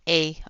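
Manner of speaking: "a" said as a loud, drawn Canadian eh. Shown as a demonstration. Explaining a Canadian word she doesn't use, Canadian eh. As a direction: pop out "a" like the classic Canadian eh. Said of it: "we don't say".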